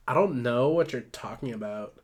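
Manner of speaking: lightly put-on Valley Girl. Ruth brushes off Benny, reluctant Valley Girl voice. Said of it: "Oh, Valley Girl voice".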